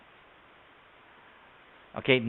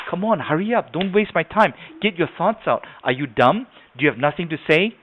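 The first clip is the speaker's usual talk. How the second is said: hurried, higher-pitched prodding; impatient fast talker; 4 semitones higher than usual. Acted. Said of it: "stereotype for people that talk fast".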